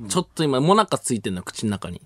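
wafer stuck to the roof of the mouth; mouth full of monaka. Real, not acted.

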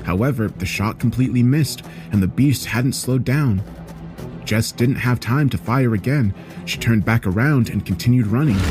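ordinary delivery, nothing marked

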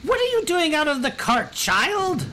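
quick, very high falsetto; hammed-up lady scolding a child; haughty noblewoman. Noblewoman looks down and scolds the newcomer, haughty falsetto. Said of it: "She looks down, she goes".

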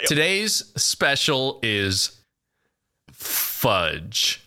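drawn-out show announcement; slow announcer voice. Shown as a demonstration. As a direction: slowly announce the special. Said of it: "Is that how we do it?".

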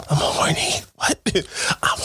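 acted, fully whispered confession. Playing the partner who interrupts his game, whispered. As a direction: whisper it, no voice at all. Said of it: "why you whispering".

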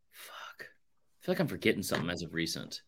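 whispered to himself while thinking. Real, not acted. Podcaster whispering to himself while he searches his memory. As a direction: mutter it under the breath, unvoiced. Trying to remember a movie.

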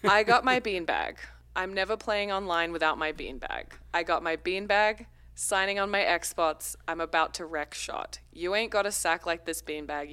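lyrics read in a mock Australian accent; a light, hammed-up Australian read of rap lyrics. Host reads a friend's rap lyrics aloud, in a mock Australian accent. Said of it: "reading this very beautifully in my Australian accent".

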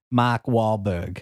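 "Mark Wahlberg" slow in a light Boston accent, r dropped: "Mahk Wahlbuhg"; Bostonian accent. Shown as a demonstration. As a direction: drawl "Mark Wahlberg" Boston style, no r's. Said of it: "say it in the Bostonian accent".

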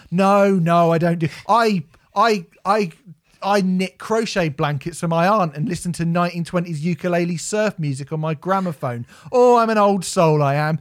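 a hint of a pompous hipster boasting; mock old soul. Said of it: "these cunts who are like".

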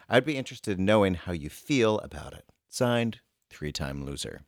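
measured read with lifted phrase openings; reading a letter aloud. Acted. Reading a reader's letter to co-host, measured read-aloud voice. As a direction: read out an advice-column letter, pausing between phrases.

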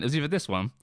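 stumbling words while chewing a lozenge. Real, not acted. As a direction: talk through a chewed lozenge. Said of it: "I'm chewing a lozenge".

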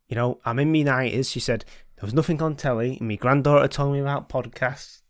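put-on light Yorkshire old lady voice; mild Yorkshire granny impression; Yorkshire accent. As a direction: read her letter with a hint of Yorkshire. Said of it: "Why is she Yorkshire?".

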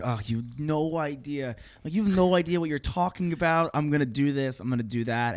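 high, slow, know-it-all scoff; cocky teenage dismissal. Retold or imitated. To mom, a high smug know-it-all scoff. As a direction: brush off mom like a smug teen. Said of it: "I'm like".

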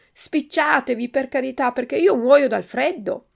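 supplica impaziente. Acted. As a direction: plead urgently from out in the cold. Supplica infreddolito davanti alla porta chiusa. (supplica impaziente)

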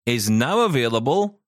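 high, drawn-out announcement building to a shout; milk the suspense, then belt it out; hammed-up triumphant newsreader; dramatic big reveal.

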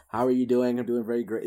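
code-switched voice hiding a New York accent; put-on neutral accent, New Yorker trying to pass; disguised New York accent. Shown as a demonstration. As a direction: try to hide your New York accent, speaking carefully. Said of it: "try to change that".

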